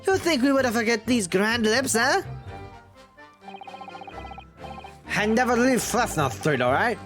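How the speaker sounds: whiny peddler pleading innocence; gossip voice. Acted. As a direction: play the shifty peddler. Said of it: "your gossip voice".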